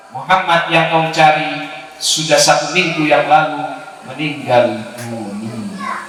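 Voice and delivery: low, slow, fading announcement; grave sorrow. Retold or imitated. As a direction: tell of the death with heavy grief. Ali announces the death.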